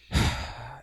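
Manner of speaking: short, weak voiceless breath; soft puff of breath; shallow breath. Shown as a demonstration. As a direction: demonstrate a small, shallow exhale. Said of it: "you get this shallow breath".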